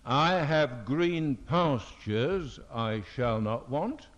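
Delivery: slow, deliberate reading of "I have green pastures, I shall not want"; wrong emphasis. Shown as a demonstration. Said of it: "It does not say".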